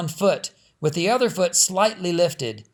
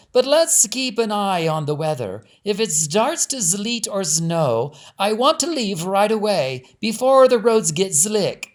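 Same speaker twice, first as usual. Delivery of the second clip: Perline's voice; 5 semitones higher, 4 dB louder than usual. Acted. Perline's voice continues.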